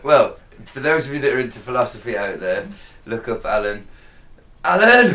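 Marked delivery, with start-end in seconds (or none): 4.6-5.1 high, loud mock call. Podcaster jokingly calls out a name, mock shout. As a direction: yell the name out for a joke.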